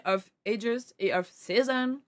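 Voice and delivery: slow, showy English accent. Shown as a demonstration. Streamer showing chat the game titles, English accent. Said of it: "Qu'est-ce qu'on en pense de mon accent anglais?".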